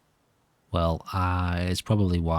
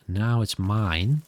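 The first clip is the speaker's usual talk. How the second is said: drawn-out slow pun, rising at the end; a slow, deliberate one-liner about the mine; slow punning delivery; much slower than usual. Shown as a demonstration. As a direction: stretch out "Now it's mine" slowly to land the pun. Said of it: "Get it?".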